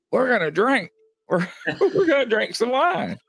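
high, laughing squeal of delight; giddy excitement. Retold or imitated. Telling a friend about the priest's wine bottles, laughing and excited. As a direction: squeal it, laughing, like you can't believe it.

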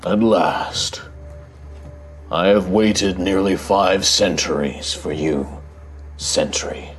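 slow, solemn ancient guardian voice; deep rumbling voice. Acted. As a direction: speak like a weighty stone guardian. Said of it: "this deep rumbling voice".

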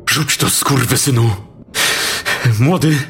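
high, frantic yelled commands; angry shouting. Acted. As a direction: scream orders at the killer. Sergeant confronts armed killer.

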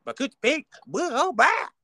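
high, lightly voiced imitation; imitating a rapper. Host imitating a rapper's podcast opener, lightly voiced. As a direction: toss off her podcast greeting. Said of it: "that's how she came on".

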